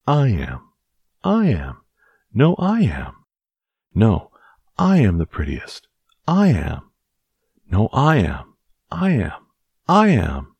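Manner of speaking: high, loud squabbling cat voices; quarreling cries. Acted. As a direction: crowd of cats shouting over each other. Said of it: "cried hundreds and thousands ... of voices".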